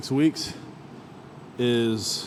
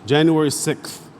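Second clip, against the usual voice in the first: January sixth in a South African lilt; South African accent; 5 semitones higher, 4 dB louder than usual. Retold or imitated. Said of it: "Trevor Noah, he be saying sixth".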